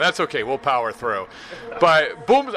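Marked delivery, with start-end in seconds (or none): 1.8-2.5 yelled call. Shown as a demonstration. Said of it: "yelling Boom Sauce".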